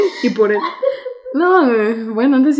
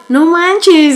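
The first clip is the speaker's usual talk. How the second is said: higher-pitched imitated disbelief; mock amazed reaction; 6 semitones higher, 4 dB louder than usual. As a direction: mimic everyone's stunned exclamation. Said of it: "Y todos los demás de".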